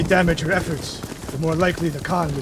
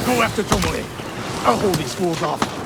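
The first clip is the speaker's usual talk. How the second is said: urgent call; 2 semitones higher than usual. Acted. Urging ally during fight.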